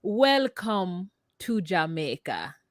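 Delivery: slow, careful Jamaican accent demo. Shown as a demonstration. Correcting co-host's failed try, slow Jamaican accent. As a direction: model the Jamaican lilt slowly. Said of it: "Can you say, like".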